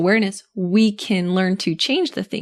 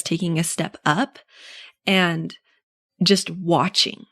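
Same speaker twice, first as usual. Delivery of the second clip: slow and plain; 3 semitones lower, slower than usual. Shown as a demonstration. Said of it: "instead of being all in the drama".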